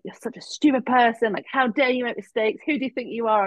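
high, whispered scolding; harsh inner critic. Retold or imitated. Inner critic scolding her, whispered. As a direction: hiss self-blame at yourself. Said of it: "I was just like".

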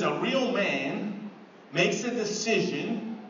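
slow, weighty quote of a serious friend. Retold or imitated. Friend tells Mark to man up, slow and serious. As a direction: speak slowly and gravely, like a man of few words. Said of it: "He says".

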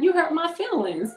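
put-on high, hurt little-kid voice; whining child. Five-year-old telling mom she is hurt, whining. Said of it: "when she gets to whining and carrying on".

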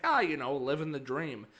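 breezy, cheerful small talk over the urinal; cheesy white guy. Retold or imitated. At the urinal, answering a stranger with a cheerful cliché. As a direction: play it up as the whitest guy alive. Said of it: "the whitest thing I could say".

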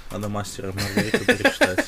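mocking imitation of friend. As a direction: parody the friend's pompous remark. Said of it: "такой".

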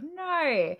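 exaggerated Australian vowel on "no"; imitated Australian accent. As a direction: mimic someone attempting an Australian accent. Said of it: "I heard him do the accent".

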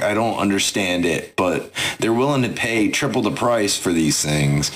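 Timmy as an unbothered merchant; Timmy's voice. Acted. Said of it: "a voice you do recognize".

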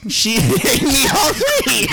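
high, slow author voice cracking into laughter. Acted. Author revealing his three names, high laughing character voice. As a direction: deliver the punchline while breaking up. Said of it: "I'm George".

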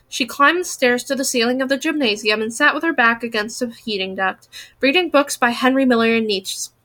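audiobook reading, steady and expressive; story narration. Acted. Narrator recalls classmates at Wheeler School, story narration. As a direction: read the novel aloud.

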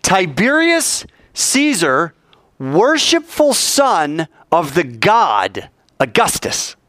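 drawn-out, stately words; slow solemn reading. Shown as a demonstration. Preacher repeats the coin's inscription to the congregation, slow and stately. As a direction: spell out the inscription slowly a second time.

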